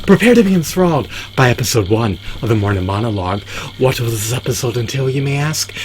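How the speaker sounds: grand intro into a rising rhetorical question; show announcer. Acted. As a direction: announce it, then lift the question playfully. Announces the show's opening.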